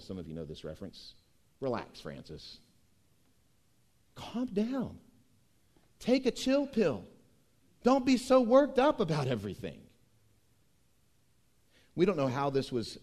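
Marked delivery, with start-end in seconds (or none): 1.6-9.8 Sergeant Hulka. Retold or imitated. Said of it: "In the words of Sergeant Hulka".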